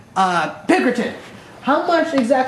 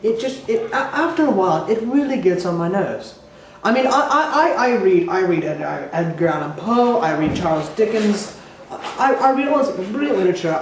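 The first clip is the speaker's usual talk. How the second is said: aggrieved Bigfoot. Acted. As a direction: articulate Bigfoot airing a grievance.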